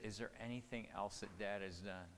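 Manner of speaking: soft, low, sincere; gentle father asking. Retold or imitated. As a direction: gently invite your child to open up. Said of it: "and I asked her".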